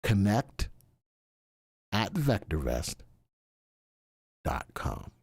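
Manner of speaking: deep, slow, breathy crooner; low seductive radio voice; slow soul-singer voice. Pretend. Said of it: "That's my slow voice".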